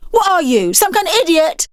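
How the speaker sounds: high, scornful jab; contemptuous girl. Acted. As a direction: sneer it. Girl insulting Clyde.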